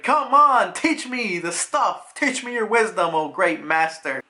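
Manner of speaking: playful, wheedling plea; pleading kid. Retold or imitated. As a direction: beg like an eager pupil. Kid begging to be taught.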